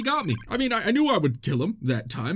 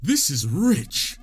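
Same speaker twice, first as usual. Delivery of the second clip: slow, pompous royal voice, rising higher; haughty king; 7 semitones higher, slower than usual. Pretend. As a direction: sneer down at a peasant like a snooty monarch. Voicing the haughty boss king.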